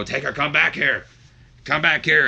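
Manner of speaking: loud, high acted shout; screaming after someone. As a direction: holler after a man riding away, as the boss. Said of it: "Vince is screaming at him".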